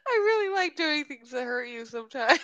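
words wobbling with suppressed giggles; laughing tease. Real, not acted. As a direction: tease through barely held laughter. Teasing while breaking up laughing.

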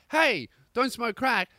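high, loud, drawn-out hey; sharp mock telling-off. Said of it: "They're not like".

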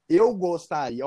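imitando pedido formal de estrangeiro; jeito travado de falar. Retold or imitated. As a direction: pedir com cuidado, palavra por palavra. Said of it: "olha o jeito que eu falei". (pedido ensaiado e travado)

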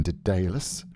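Dedalus with DAY stressed in the middle; trying a pronunciation. Shown as a demonstration. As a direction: say Dedalus as duh-DAY-lus. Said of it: "Let's stick with Dedalus".

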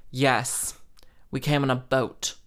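curt, rude sarcasm; dry, rude comeback. Retold or imitated. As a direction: answer small talk with a rude put-down. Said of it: "In that tone, because I am what? Rude".

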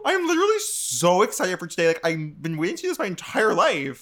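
high, gushing influencer voice; James Charles impression. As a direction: do James Charles, all bubbly. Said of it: "my James Charles impression".

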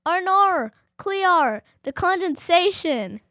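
high, loud mock-Aussie meme voice; mock Australian accent. Kid quoting a meme from school, loud mock Australian accent. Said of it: "making fun of Australians".

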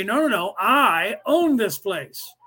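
mock tyrant claiming the whole planet; mock greedy claim. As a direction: lord it over everyone, mockingly. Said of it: "That's what the cabal is saying".

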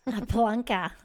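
a touch of mock Scottish on "plonker"; mimicking Scottish accent. Host echoing guest's Scottish slang, mimicking Scottish accent. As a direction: lightly imitate a Scottish word.

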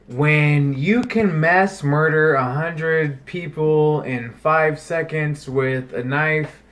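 slow, measured recitation; recited meme. Retold or imitated. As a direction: spell it out slowly as a slogan. Quotes the left's meme.

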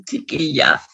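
smoker's voice. Acted. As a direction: rasp it out like a heavy smoker. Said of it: "la voz de fumadora".

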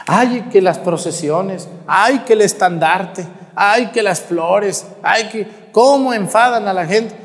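a hint of a nagging busybody; mock whining gossip. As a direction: whine each "ay, que" like a fussy churchgoer. Mocking gossiping complainers.

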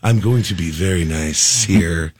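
slow, polished radio presenter; public radio host. Retold or imitated. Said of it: "turning on your public radio voice".

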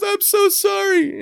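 very high, slow hammed-up apology; mock-apologetic Kelly. Kelly apologizes to the turkey's owner, high slow mock distress. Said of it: "And she goes".

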